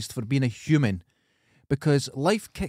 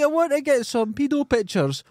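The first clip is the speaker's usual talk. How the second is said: high mocking voice; 11 semitones higher than usual. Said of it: "mocking a creep's voice".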